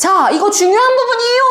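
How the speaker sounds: abrupt, very high, suddenly loud burst. Showing how raising volume stresses an important point, suddenly loud voice. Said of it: "하면서 목소리를 갑자기 크게 한다거나".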